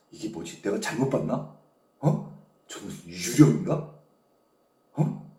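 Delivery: low, hushed self-questioning; very soft, low puzzled fear; frightened bewilderment. Retold or imitated. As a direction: act out uneasy disbelief under the breath. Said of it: "겁먹는 거죠".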